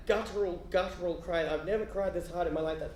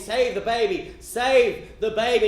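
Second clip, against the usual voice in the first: mock urgent thought; 4 semitones higher, 9 dB louder, slower than usual. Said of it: "he thinks".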